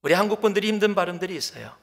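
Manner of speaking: ordinary talk, nothing marked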